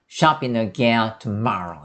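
shopping again tomorrow, slowly, leaning on the middle of tomorrow; shopping again tomorrow with a weighty "MA" in tomorrow; stress on MA. Shown as a demonstration. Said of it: "마 쪽에 힘을 실어서". (shopping again tomorrow, '마'에 힘을 실어 천천히)

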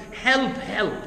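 mock shout for help from the water; retold cry for help. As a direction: call out for help as the sinking man. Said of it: "And he shouted out".

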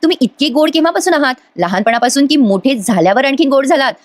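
retold wife's playful question, slightly lifted; lightly smiling tease. Wife asks husband since when he is sweet, lightly smiling tease. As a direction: tease sweetly with a hint of a smile. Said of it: "Sayali हसून म्हणते".

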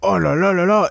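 fed-up gamer wail; exasperated outburst. Real, not acted. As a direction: groan at your own blunder. Exasperated at his own mistakes.

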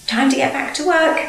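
smiling. A narrator's reading. Driver wakes Toby from his doze, smiling. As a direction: rouse him with a smile in the voice. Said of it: "smiled his driver".

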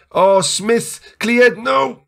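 high, tense cry at the action; alarmed reaction. Real, not acted. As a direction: react in rising panic to the play. Tense moment in live match.

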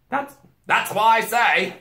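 loud, high, slow chiming in; Mister Beaver. A narrator's reading. Beaver agreeing with the girl, loud and emphatic. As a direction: butt in emphatically.

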